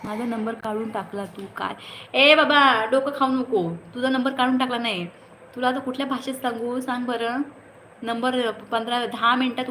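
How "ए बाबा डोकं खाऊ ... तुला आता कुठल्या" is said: exasperated. Real, not acted. Viewer nags her about number.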